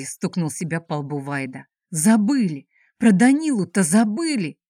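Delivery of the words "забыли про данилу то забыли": louder, stress on про; dismayed realization. Acted. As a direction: blurt out the forgotten thing. Slapping forehead, realizing mistake. (досадливое восклицание)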